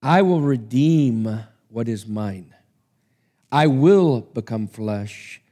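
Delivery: slow, steady solemn promise; calm vow. Acted. Son of God vows.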